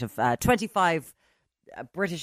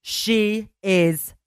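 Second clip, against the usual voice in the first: loud, slow, raised defence of her; emphatic scolding; 4 semitones higher, 10 dB louder, slower than usual. Real, not acted. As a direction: hammer each phrase out at the critics. Scolding lads, defending Saoirse Ronan.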